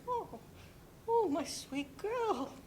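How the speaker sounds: grief. Acted. Comforting grieving friend.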